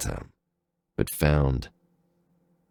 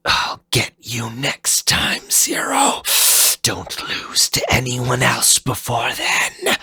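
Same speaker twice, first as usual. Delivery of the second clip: higher, hushed commanding parting shot; ordering; 8 semitones higher than usual. Acted. Fafnir ordering Zero on his way out, mock commanding. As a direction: promise a rematch as you leave. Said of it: "Fafnir ordered".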